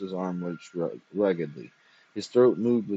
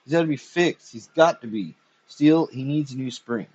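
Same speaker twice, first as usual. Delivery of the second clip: higher, louder, frantic pleading; desperate; 5 semitones higher, 5 dB louder than usual. A narrator's reading. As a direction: beg in panic.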